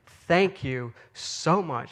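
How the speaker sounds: slow, sincere retold gratitude; unhurried, earnest quote of a thankful woman; heartfelt thanks. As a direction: draw the thanks out, deeply grateful.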